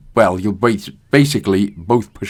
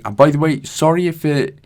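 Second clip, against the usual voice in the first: half-numb mouth from the dentist. Real, not acted. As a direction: talk through a numb mouth. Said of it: "half of my mouth is completely numb".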